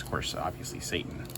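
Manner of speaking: hushed whisper aside. Real, not acted. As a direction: drop to a whisper. Joke punchline, unvoiced.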